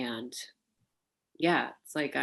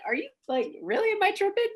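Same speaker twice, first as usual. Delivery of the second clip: amused disbelief; 3 dB louder than usual. Retold or imitated. Her disbelieving reply.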